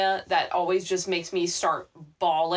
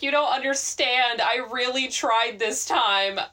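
heartbreaking plea; 3 semitones higher than usual. Retold or imitated. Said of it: "in the most heartbreaking voice".

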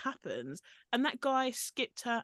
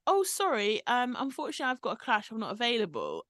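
lightly imitated, higher-pitched excuse; mock apology; 3 semitones higher, 3 dB louder, faster than usual. Podcaster retelling a castmate declining an invitation, light mock apology. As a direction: start high and apologetic, easing down.

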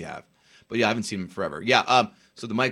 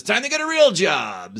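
higher, louder, slow mock stern dad; 9 semitones higher, 7 dB louder than usual. Old man tells his son to get a real job, in a slow stern voice. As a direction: lay down the law like a dad, slowly. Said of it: "My old man says".

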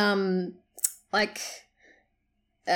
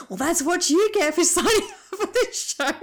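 mock smug retort; 7 semitones higher than usual. Contestant throws her words back.

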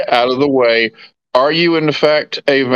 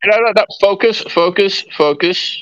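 firm calming; 7 semitones higher, faster than usual. Acted. Calming panicked Oliver.

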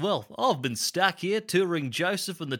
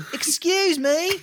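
calling out higher; 11 semitones higher, 3 dB louder than usual. Acted. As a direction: Excuse me called again much higher and louder.

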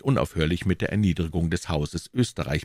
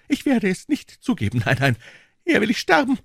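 high, louder defiant cry; 4 dB louder, faster than usual. A narrator's reading. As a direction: rise to a desperate defiant cry. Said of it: "rief die Königin".

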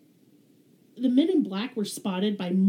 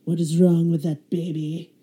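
alarmed mom; 3 semitones lower, 8 dB louder than usual. Retold or imitated. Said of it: "All Mom could say was".

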